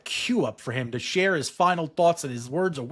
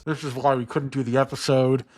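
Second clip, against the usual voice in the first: muffled by mask; 5 dB louder than usual. Real, not acted. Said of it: "I got a latex mask on my face".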